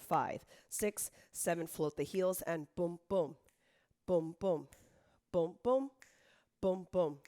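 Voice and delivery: rhythmic dance count, punching each boom; calling counts. Shown as a demonstration. Instructor counting the class through each accent. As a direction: call the beats for the class.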